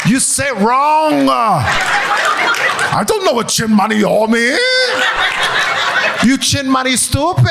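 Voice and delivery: slow, drawn-out Asian-mom scolding; Asian mom accent. Acted. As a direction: scold in a thick Korean-mother accent. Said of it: "Not Asian mom".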